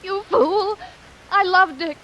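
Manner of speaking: loud, high, fierce declaration; impassioned outburst. Acted. Maxine insisting to Sam she loved Dick, passionate. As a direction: fling it at him with passion. Maxine defends her love angrily.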